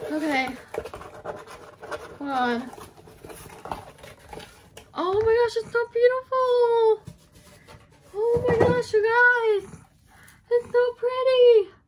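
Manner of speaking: very high, swooping, nervous, jittery, thrilled gushing. Unboxing a long-awaited journal: nervous and excited. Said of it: "I'm like shaky".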